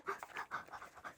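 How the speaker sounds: soft, breathy gasps before the reveal; quiet anticipatory gasping; nervous gasping. Real, not acted. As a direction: catch your breath with a pounding heart. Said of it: "심장, 심장이 떨려".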